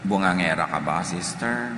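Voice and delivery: normal talking voice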